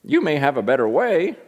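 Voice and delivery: put-on cute old scratchy voice with a swinging lilt; J. Vernon McGee. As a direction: imitate a little old man preaching. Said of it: "scratchy voice".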